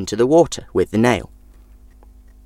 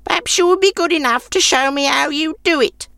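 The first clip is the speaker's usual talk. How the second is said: put-on very high crabby old woman voice; grumpy old woman. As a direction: sour old crone refusing. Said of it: "she said".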